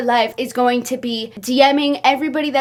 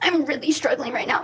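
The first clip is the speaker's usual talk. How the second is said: mocking put-on distress and struggling, quieter; 6 dB quieter than usual. Speaker mocks a woman's message to James: mocking fake distress. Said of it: "As if she's not actually struggling".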